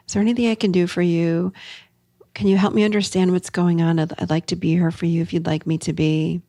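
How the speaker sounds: gentle, open asking; soft questions to a stonewalling partner. Shown as a demonstration. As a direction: sound like you're there for them. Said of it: "Remember these very soft, lovely, open questions".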